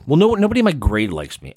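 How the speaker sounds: put-on fast, high whiny teen complaint; sulky teenager. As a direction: blurt it like a hurt kid. Voicing a teen client.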